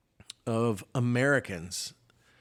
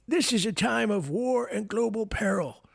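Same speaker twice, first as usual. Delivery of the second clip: whispered; 10 semitones higher than usual. Retold or imitated.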